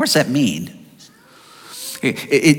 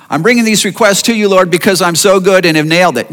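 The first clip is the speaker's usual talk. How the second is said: fast, louder smug prayer; mock smug prayer; 4 dB louder, faster than usual. A believer praying smugly about his own goodness. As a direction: brag to God. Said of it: "hopefully you don't go there".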